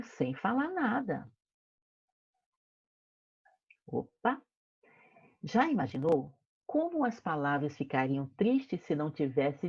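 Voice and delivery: put-on expressive read-aloud for kids; story narration. A narrator's reading. Teacher reading the story to her class, expressive storytelling. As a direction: paint each picture for the children.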